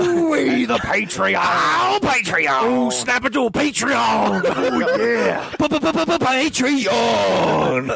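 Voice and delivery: monster truck ad. Pretend. Shouted rally-ad Patreon pitch.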